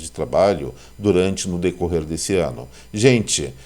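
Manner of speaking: speaking with an anesthetized mouth; numb mouth. Real, not acted. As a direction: talk through a numb mouth after the dentist. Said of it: "eu tô com a boca anestesiada".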